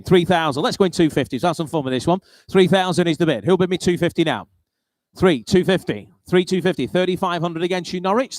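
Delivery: brisk, punchy bid calling; auctioneer. Acted. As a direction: rattle off the bids to the room. Calling bids at a car auction.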